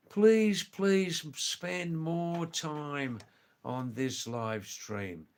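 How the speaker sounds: earnest plea. Real, not acted. Host begging viewers to stay on the live stream, pleading. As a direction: plead with them, stretching the words. Asking viewers for more watch time.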